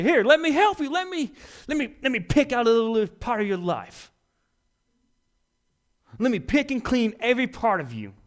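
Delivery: high, loud, fake helpfulness; mock hypocrite. Hypocrite offering to fix someone's life, high fake-sweet voice. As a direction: overdo the helping voice.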